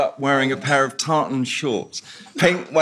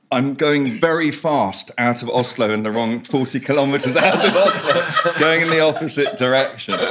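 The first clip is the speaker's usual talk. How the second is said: laughing quote; 3 semitones higher than usual. Retold or imitated. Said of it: "He's like".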